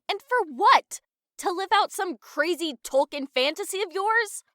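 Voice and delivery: heated, incredulous complaint; exasperated. Acted. Scolding a friend for volunteering them, exasperated. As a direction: challenge them with rising exasperation. Quarrel over volunteering for quest.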